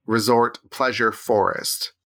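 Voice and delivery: stifling giggles while naming it; slow, chuckling through the name; laughing. Real, not acted. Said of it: "hard for me to say that name without laughing".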